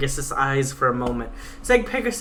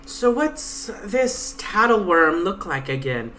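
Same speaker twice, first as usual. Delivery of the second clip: lightly voiced sassy Pegasus, a touch higher; 3 semitones higher, slower than usual. Pegasus taunting her guide, a lightly voiced cocky mare. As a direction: read the Pegasus as a cocky, defiant young mare.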